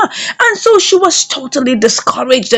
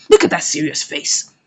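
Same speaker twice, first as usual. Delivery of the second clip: laughing; 8 semitones lower, 4 dB quieter than usual. Real, not acted. Narrator laughs at his face.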